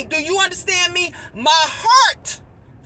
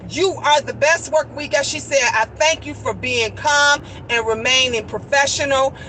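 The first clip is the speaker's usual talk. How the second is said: imitated appreciative manager; 5 semitones lower than usual. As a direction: thank an employee in a low, composed voice. Retells manager praising and thanking her.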